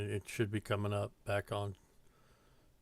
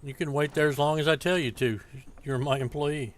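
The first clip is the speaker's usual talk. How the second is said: bossy; 4 semitones higher, 5 dB louder than usual. Pretend. Bossing the game carriage driver.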